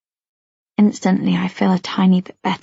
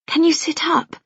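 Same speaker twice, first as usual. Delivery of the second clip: gently; 7 semitones higher than usual. Acted. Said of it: "Mum says gently".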